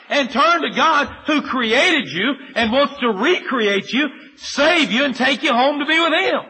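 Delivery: preacher pressing sinners to turn to God, rising and forceful; fervent preaching. Real, not acted. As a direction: hammer it home from the pulpit. Pleading call to renounce doubt.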